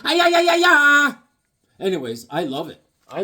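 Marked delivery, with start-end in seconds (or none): 0.0-1.1 high loud playful groan; mock frustrated wail; comic exasperated ay ay ay. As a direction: throw up your hands at the name. Fumbling the artist's name.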